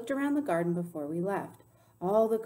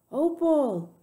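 loud, high call of a name; carrying storybook shout; 8 semitones higher, 8 dB louder than usual. A narrator's reading. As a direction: call across the yard. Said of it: "I heard the preacher call".

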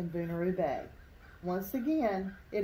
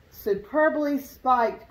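louder, slow admiring cry; excited cry; 4 semitones higher, 7 dB louder, slower than usual. A narrator's reading. Pelican praising the darter's catch, loud slow cry. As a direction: call it out slowly and loudly in praise. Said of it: "cried the pelican".

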